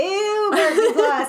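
disgusted. Real, not acted. Disgust at actor.

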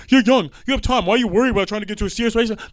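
mocking advice. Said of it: "I hate when they're like".

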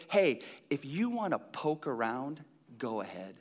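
soft, low, hushed offer; gentle invitation. Retold or imitated. Jesus inviting Thomas to poke around, hushed. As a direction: invite them in quietly. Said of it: "you know what Jesus was saying?".

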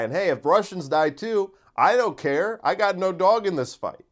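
callous character. Acted. As his comedy character, a lightly voiced callous shrug. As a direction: toss it off with cruel glee. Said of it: "that's the character".

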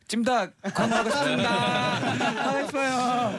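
high laughing plea, fast then breaking into laughter. Real, not acted. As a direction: laugh through an eager wish. Eager joke about wanting the ad. (웃으면서 높게 조르듯)

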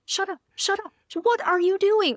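high, strained self-scolding; mock inner scream. Embarrassed fan berating herself in her head, high mock scream. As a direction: scream at yourself without full volume. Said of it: "I'm screaming at myself".

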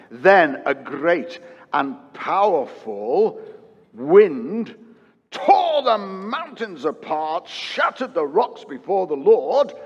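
slow, swelling scripture reading; slow, rising dramatic storm reading. Acted. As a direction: build the wind up as it tears the mountains. Dramatic reading of the powerful wind.

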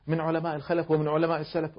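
soft, calm and kindly; gentle reply. Retold or imitated. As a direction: answer him gently and politely. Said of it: "بأسلوبك الهادئ اللطيف". (ردّ هادئ لطيف)

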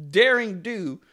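laughs through daring do; laughing while reading. Real, not acted. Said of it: "I'm just excited".

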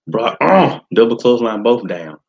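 breathless hype commentary; out of breath. Real, not acted. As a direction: talk while winded. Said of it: "Let me catch my breath".

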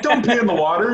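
put-on high, loud goofy accent; mock yell of a camp counselor; Lars impression. Friend imitates Lars scolding campers in a high voice. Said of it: "He's like".

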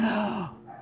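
sharp imitated gasp of shock; susto imitado. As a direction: suck in air as if badly startled. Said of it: "que ela fez assim". (suspiro de susto imitado)

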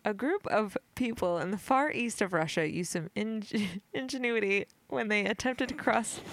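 giggling through the words. Real, not acted. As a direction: fight back giggles while reading. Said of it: "I'm so giggly right now".

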